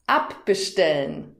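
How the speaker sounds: abbestellen with ab stressed; stress shown on ab. Shown as a demonstration. Teacher asking if the learner hears the stress, ab stressed. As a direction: hit the ab in abbestellen. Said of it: "Hörst du die Betonung?".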